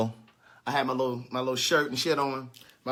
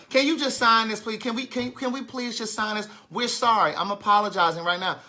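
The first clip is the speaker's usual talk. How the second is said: higher, pleading student voice; begging schoolgirl; 5 semitones higher than usual. Retold or imitated. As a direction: plead with the teacher, pitched up. Student begging teacher to sign.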